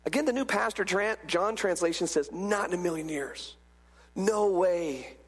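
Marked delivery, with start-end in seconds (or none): 2.3-5.2 low, firm "No way"; "No way" as a final word; emphatic refusal. Acted. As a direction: rule it out with "Not in a million years". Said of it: "Paul is using an emphatic here".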